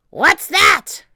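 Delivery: high, loud startled demand; sudden pirate holler; shouting. A narrator's reading. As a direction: bark the question high in surprise. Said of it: "he shouted".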